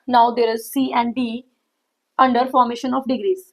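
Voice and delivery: very slow, word by word dictation. Acted. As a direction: spell out the rule slowly for notes. Dictating rule slowly to students. (धीमा, शब्द-दर-शब्द लिखवाना)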